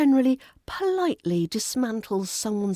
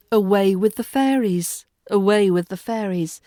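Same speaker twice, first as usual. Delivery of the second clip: light and whimsical; 5 dB louder than usual. Shown as a demonstration. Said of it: "make the fairies sound light and airy".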